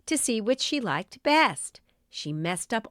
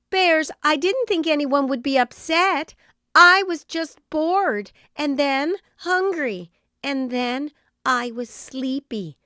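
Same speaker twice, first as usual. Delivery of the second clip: lightly voiced Goldilocks, a touch higher and sheepish; sheepish girl; 5 semitones higher, 5 dB louder than usual. A narrator's reading. Goldilocks sheepishly explains to the bears. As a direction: own up to the bears, embarrassed. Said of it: "in a sheepish voice".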